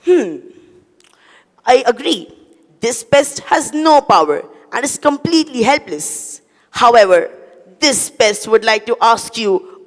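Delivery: mock the great humans with relish; taunting cockroach. Cockroach taunting humans about the coronavirus, mildly mocking.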